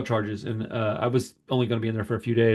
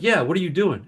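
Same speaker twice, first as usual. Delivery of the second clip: guard; 5 semitones higher than usual. Retold or imitated. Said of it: "And he's like".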